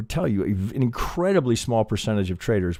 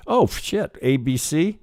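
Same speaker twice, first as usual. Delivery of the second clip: excited realization; 7 semitones higher, 3 dB louder, slower than usual. Retold or imitated. Imagined trader thinking wave is over.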